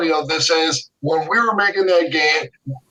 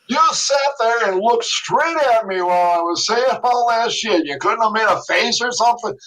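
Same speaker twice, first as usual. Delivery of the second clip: mock exasperation; 5 semitones higher than usual. Retold complaint to the Spielberg staffer.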